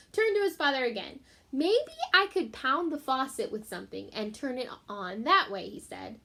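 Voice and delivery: put-on gentle read-aloud for children; story reading. A narrator's reading. Teacher reading a chapter to her class, storytelling voice.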